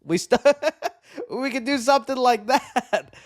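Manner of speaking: lightly put-on Australian accent, breaking into laughs; a quick mock Aussie ape, laughing; hammed-up Australian, laughing. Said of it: "Australian apes would be cool too".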